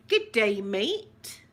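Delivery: amateurish Australian accent attempt. Shown as a demonstration. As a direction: try an Australian accent, punching the first words. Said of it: "is that Australian?".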